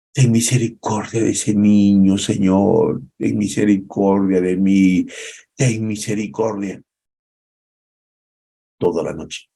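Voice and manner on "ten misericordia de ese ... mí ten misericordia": pleading prayer. Acted. David pleading to God.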